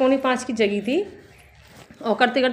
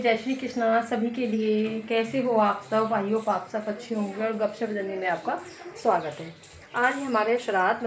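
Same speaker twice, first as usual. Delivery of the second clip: hushed talk; 6 dB quieter than usual. Real, not acted. Pandit eating, she talks softly.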